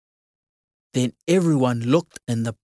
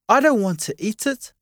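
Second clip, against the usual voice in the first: shout; 7 semitones higher than usual. Acted. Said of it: "shouted Mum".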